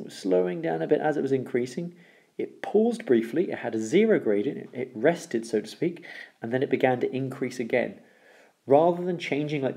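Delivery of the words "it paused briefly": slow, stretched and higher, as if pausing; slowed right down for emphasis; drawn out slowly. Shown as a demonstration. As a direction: stretch the words out to act out the pause. Describing the curve pausing.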